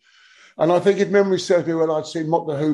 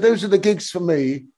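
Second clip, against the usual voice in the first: posh voice. Retold or imitated. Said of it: "in an incredibly posh voice".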